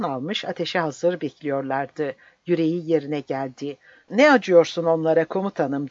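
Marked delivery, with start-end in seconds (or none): 4.1-5.9 loud urgent cry; shouting. Acted. Mandras shouting at the commander to show no pity, loud. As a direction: call out, pushing the commander. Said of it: "diye haykırdı Mandras'ın sesi".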